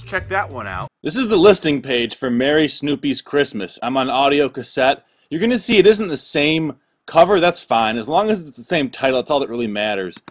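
ordinary talk, nothing marked

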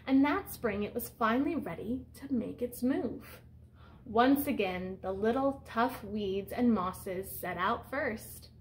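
picture-book read-aloud voice; reading to children. Acted. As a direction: read it out to the class like a storyteller. Teacher reads picture book aloud.

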